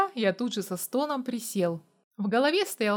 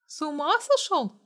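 mild narrated cry; 6 semitones higher than usual. A narrator's reading. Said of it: "закричала Амалия".

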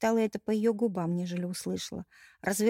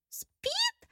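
outraged question soaring very high; indignant. A narrator's reading. Bride outraged that her groom is only asleep. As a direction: fling the word back in disbelief. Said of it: "возмутилась Эль".

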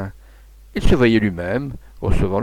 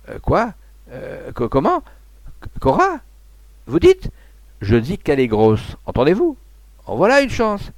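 stunned, can't believe it; astonished; 7 semitones higher than usual. A narrator's reading. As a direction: voice leaping much higher with each question. Stunned husband, delighted father. (stupéfait, la voix qui monte)

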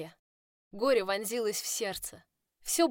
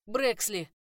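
calling after; 3 semitones higher, 6 dB louder than usual. A narrator's reading. Kaden calls after her.

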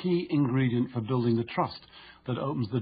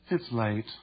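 flat, lifeless "It's late"; bored; 3 semitones lower than usual. Shown as a demonstration. Demonstrating boredom to the reader, bored. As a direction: sound utterly uninterested. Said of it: "With boredom".

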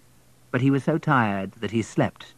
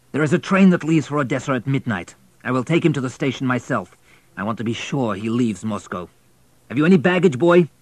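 station master; 3 semitones higher, 4 dB louder than usual. Acted.

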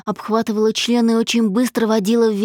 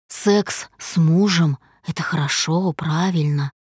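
1 tender; 4 semitones lower than usual. A narrator's reading. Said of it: "ласково произнёс он".

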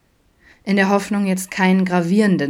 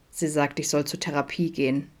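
softer, smiling reply; 5 dB quieter than usual. Acted. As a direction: say it with a small smile. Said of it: "lächelte Adam schließlich". (leise, mit einem Lächeln)

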